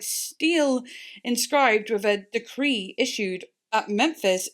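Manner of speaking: slow, careful encyclopedia reading; halting read of a Wikipedia entry; reading aloud. Acted. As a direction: read it out like a stiff article. Reads encyclopedia text aloud.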